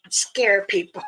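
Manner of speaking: playful whispered aside. Real, not acted. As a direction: whisper the words with no voice. Whispered punchline before laugh.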